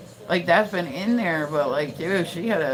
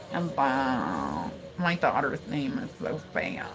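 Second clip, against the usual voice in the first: imitating her over-pronounced speech; 5 semitones lower, 6 dB quieter, slower than usual. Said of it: "you pronounce every fucking thing".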